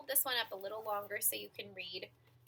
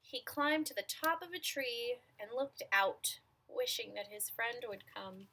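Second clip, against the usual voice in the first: measured storytelling with stretched key words; picture-book narration; 4 semitones higher, 3 dB louder than usual. A narrator's reading. Reader telling children about an imaginary friend, storytelling voice. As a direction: read it to small children, pausing between phrases.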